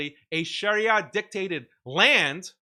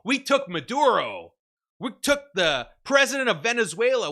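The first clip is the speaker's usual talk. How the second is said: louder, slow, higher chest-beating brag; mock swaggering boast; 5 semitones higher, 4 dB louder than usual. Mocking Americans as slow, loud, swaggering braggarts. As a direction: strut it like a cocky bully.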